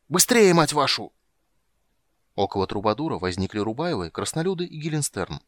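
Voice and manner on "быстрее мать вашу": high, loud, drawn-out swearing; frantic, slow-stretched high yell; yelling angrily. A narrator's reading. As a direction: bellow at slow helpers. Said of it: "орал Лютик".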